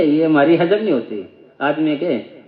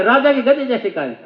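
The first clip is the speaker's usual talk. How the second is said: pitched up, straining to shout "राजा के गधे जैसे कान"; full-force mock yell; 5 semitones higher than usual. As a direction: yell it like a slogan. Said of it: "पूरा जोर लगा के". (नारे की तरह खींचकर चिल्लाना)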